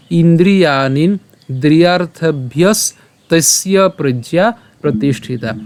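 slow, measured Sanskrit verse; shloka recitation. Shown as a demonstration. Teacher presenting today's shloka to learners, slow recitation. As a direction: recite the verse with drawn-out long vowels.

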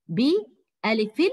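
بألف drawn out very slowly; stretched word. Shown as a demonstration. Teacher stressing بألف very slowly for the pupils. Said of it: "نشوف مع بعض".

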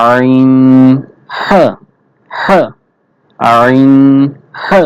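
আইন and হা pressed from the middle of the throat; squeezed throat. Shown as a demonstration. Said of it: "গলা চিপে উচ্চারণ করতে হবে". (গলা চিপে আইন, হা উচ্চারণ)

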